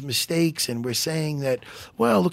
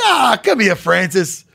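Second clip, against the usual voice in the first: affectionate call; 2 semitones higher, 5 dB louder, slower than usual. Retold or imitated. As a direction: call him over for a hug. Acts calling Francis over for hug.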